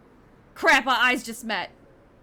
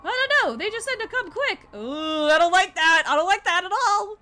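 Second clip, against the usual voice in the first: higher, louder urgent shouts; excited partner; 6 semitones higher, 4 dB louder than usual. Acted. Partner bursting in with urgent news, higher and loud. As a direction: rush the news out.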